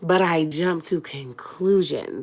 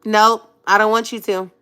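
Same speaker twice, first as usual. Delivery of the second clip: stubborn refusal; 4 semitones higher, 4 dB louder than usual. Retold or imitated. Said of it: "I was like".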